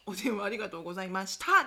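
customer service voice. Retold or imitated. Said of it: "できるじゃん".

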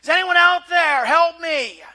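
loud, high cry for help; acted-out desperate yell. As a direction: shout up for rescue, scared. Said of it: "and he yells out".

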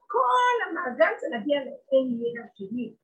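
slow tearful cry. Real, not acted. Preacher weeping before the congregation, slow and crying. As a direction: break into a sob as you declare it.

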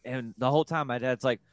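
ordinary delivery

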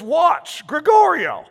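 high, loud call to wake him; urgent call. Acted. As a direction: shout the name to rouse him. Jesus calling to sleeping disciple.

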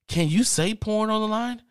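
high-pitched, astonished asking; incredulous question. Retold or imitated. Caller asks agent about saying porn on line, high incredulous. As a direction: ask it high, in mock disbelief.

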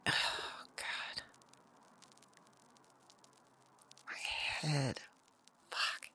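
very soft, hoarse murmur after a vision; pained, drained groan. Acted. Woman coming out of the vision, head aching, muttering. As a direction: barely get the words out through a headache.

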